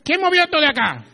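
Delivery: high, loud grumbling question; annoyed husband. Acted. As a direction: complain loudly about the moved things. Husband complains on arriving home.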